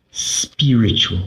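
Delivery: airy, drawn-out word with mock finesse. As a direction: say it slowly, savouring it with affected refinement. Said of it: "say it like that with so much finesse".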